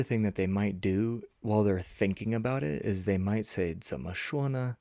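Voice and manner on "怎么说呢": musing under the breath, pitch lifted; talking to oneself. Acted. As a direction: wonder aloud while searching for a word. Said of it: "Like they're talking to themselves".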